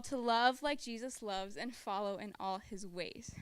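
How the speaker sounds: a pledge said by a cabin of campers; pledge recitation. Retold or imitated. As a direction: recite it like a class oath.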